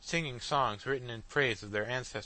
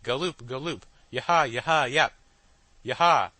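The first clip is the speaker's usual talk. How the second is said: braying machines; 2 semitones higher, 8 dB louder than usual. A narrator's reading. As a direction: bray after him. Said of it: "braying of the machines".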